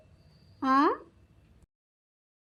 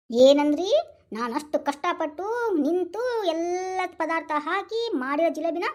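outraged; much slower than usual. Acted. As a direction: demand it back, offended. Wife outraged at refusal.

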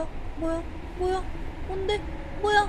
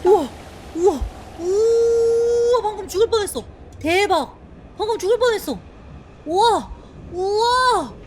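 shocked excitement; 5 semitones higher, 4 dB louder, faster than usual. Real, not acted. Nearly died in game.

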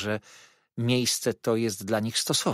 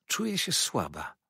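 moaned; 5 semitones higher than usual. A narrator's reading. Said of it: "wyjęknęła moja matka".

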